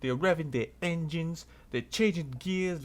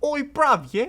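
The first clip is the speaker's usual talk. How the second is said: rising higher and louder; building roadman challenge; 5 semitones higher, 5 dB louder than usual. Retold or imitated. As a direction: square up, getting louder. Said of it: "Tyrese like".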